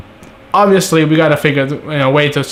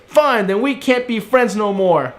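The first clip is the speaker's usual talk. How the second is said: mock pouty breakup; 6 semitones higher than usual. Mock bickering ends.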